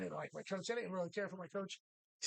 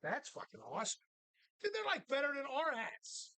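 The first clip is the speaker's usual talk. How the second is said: mock enthusiasm; 4 semitones higher than usual. Mocking coach with fake enthusiasm.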